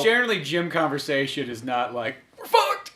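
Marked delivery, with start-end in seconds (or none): 2.4-2.9 imitating the breathy, squeezed-out words; exhaled words. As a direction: push it out on an exhale.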